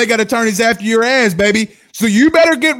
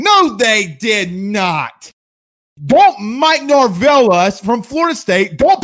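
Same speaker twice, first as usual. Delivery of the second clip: angry rebuttal; slower than usual. Real, not acted.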